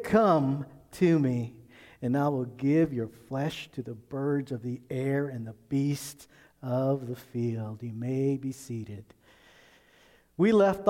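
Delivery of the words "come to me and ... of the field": menacing Goliath taunt. Acted. Goliath taunts David in reading.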